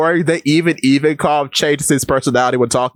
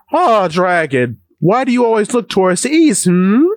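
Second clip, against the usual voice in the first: calm monotone voice; 4 semitones higher than usual. Retold or imitated. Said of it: "the calmest, regular, monotone voice".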